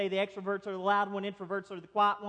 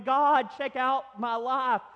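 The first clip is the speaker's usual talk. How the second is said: crying out; 5 semitones higher, 4 dB louder, slower than usual. Acted. Acted complaint in prayer.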